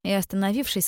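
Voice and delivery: ordinary delivery, nothing marked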